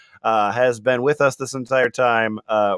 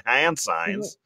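Latina mom voice; 2 semitones lower, slower than usual. Acted. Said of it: "more Latina, uh, Republican mom".

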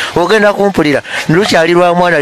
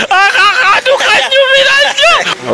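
high pitched voice; slower than usual. Pretend.

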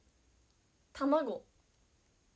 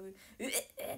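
imitated gag noise; retching; 3 dB quieter, faster than usual. Telling viewers about durian, imitated retching. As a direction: mimic nearly throwing up. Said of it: "ゲー吐きそうになってさ".

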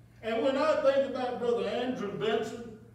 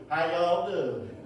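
Southern greeting; 4 semitones lower, slower than usual. Retold or imitated. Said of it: "he was a Southern gentleman".

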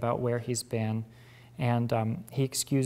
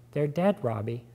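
said gently; 2 semitones higher than usual. Acted. Sister telling her brother their parents died, gently. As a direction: break it to him kindly. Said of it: "She said gently".

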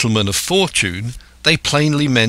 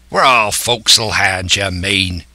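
mildly curt pirate retort; snapped. Acted. Silver correcting the lad Dick, mildly snapped. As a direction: cut the lad down, pirate-style. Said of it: "snapped Silver".

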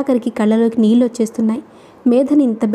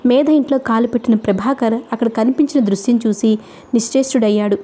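ordinary delivery, nothing marked

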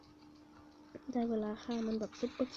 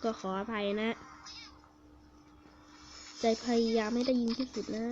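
speaking up; 5 dB louder than usual. Real, not acted. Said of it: "ลืมพูดให้เสียงดังนะ".

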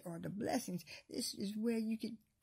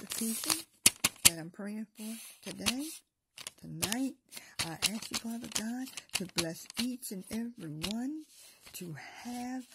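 prayer. Acted. Preacher praying over a list of people, earnest and fervent. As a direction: pray over the list with rising fervor.

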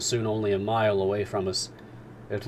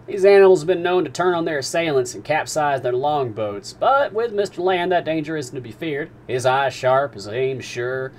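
much higher and louder, commanding and wry; a captain teasing the harpooner's itch; Captain Nemo; 4 semitones higher, 7 dB louder than usual. Acted. Captain explaining the dugong.

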